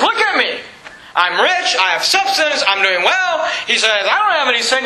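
high-pitched, self-satisfied brag; mock boasting. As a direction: crow about yourself, imitating a proud man. Acting out Ephraim's boast.

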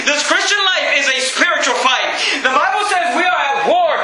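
high-pitched, urgent pulpit shouting; full-force preaching. Real, not acted. Pastor answering "what do I do when the devil attacks", full-force preaching. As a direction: drive it home to the congregation, pitch riding high.

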